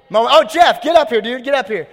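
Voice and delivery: loud, high summons to the stage; calling out. Real, not acted. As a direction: holler for someone to come up.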